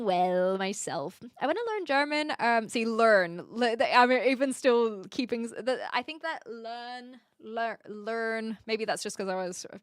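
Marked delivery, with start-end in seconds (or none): 2.9-3.4 learn with a strong R; r sound in learn. Shown as a demonstration. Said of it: "my R's are more obvious". 6.5-8.6 learn said slowly, testing the R; r sound in learn. Shown as a demonstration. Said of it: "my R's are more obvious".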